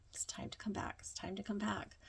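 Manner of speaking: hushed, near-whispered imitation of a shaman; shaman calling back. Shaman calls her back from the ceremony, imitated in a hushed near-whisper. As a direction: softly coax someone back, almost whispering. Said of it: "hearing the shaman's voice start to call me back".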